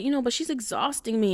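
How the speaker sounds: high-pitched imitated whine; whining. Imitating her complaints about the boss, whining. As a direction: mimic a worn-out complainer. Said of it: "kinda, like, whining".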